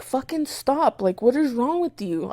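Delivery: high-pitched exasperation without raising volume; retold exasperation. To cousin scratching her face, exasperated.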